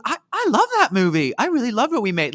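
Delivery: put-on high, earnest stab at an Aussie accent; Nicole's Aussie accent. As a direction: play the Australian star sincerely moved. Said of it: "I can't even do the Aussie accent".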